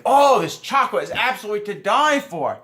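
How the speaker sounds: high-pitched mock gushing; very expressive woman. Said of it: "speak in a very expressive tone".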